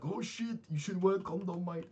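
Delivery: high-pitched imitation of an excited coworker; mock-alarmed coworker. Coworker hears about the test, mock alarm. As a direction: play up his shocked advice, voice jumping high.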